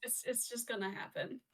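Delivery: whistly S's from new retainers; talking around new retainers; wearing a retainer. Real, not acted. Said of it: "sorry if I sound weird. I have new retainers in, so my S's are gonna be kinda whistly".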